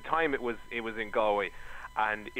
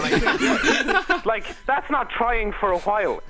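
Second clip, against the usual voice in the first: laughing through the words; cracking up while talking; 6 semitones higher, 3 dB louder, much slower than usual. Real, not acted. Laughing at one email.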